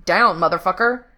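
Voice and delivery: a loud, urgent snapped shout. A narrator's reading. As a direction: bark the warning loud and sharp. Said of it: "he snapped".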